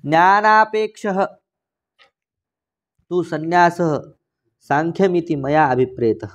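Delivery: slow, measured reading of scripture; Sanskrit text recitation. Acted. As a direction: draw out the Sanskrit phrase endings. Reads Sanskrit commentary aloud.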